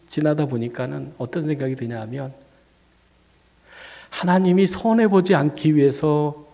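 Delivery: ordinary talk, nothing marked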